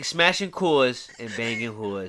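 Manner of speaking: slow Boston slogan; lightly Boston, drawn out; a slow, light Boston beer slogan; Boston accent. Acted. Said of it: "Got the little Boston accent".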